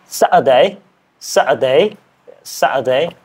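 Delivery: learner's British "Saturday", r dropped; British accent attempt. Shown as a demonstration. Learner practising a challenge word, British accent attempt. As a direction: repeat the word carefully as if British. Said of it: "I am learning British accent".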